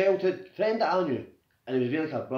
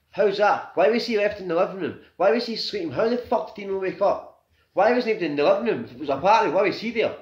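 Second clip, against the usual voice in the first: louder, higher, demanding answers; grieving friend venting real anger; angry; 5 semitones higher, 5 dB louder than usual. Real, not acted. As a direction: fire off each why, raised and bitter. Angry questions about friend's death.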